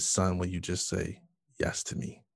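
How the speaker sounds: hushed and gentle, voicing God; a soft, tender call to a son; soft quiet voice of God. God gently asks his son, hushed and tender. God's still small voice.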